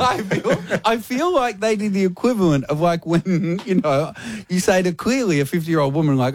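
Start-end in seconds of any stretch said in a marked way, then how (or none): 0.0-3.6 high, words broken by laughter; laughing through it. Real, not acted. Host laughing as he explains the prank to his co-host. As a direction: laugh while trying to explain.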